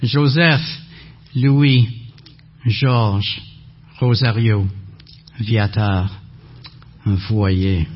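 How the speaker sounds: each name set apart, clearly; spelled out for dictation. Shown as a demonstration. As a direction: give each name its own beat. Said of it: "So are you writing this down?".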